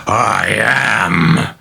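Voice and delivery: put-on possessed girl bellows at the priest, booming; bellowed. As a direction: hurl it at the priest in rage. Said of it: "Regan bellowed with a sudden jerk forward".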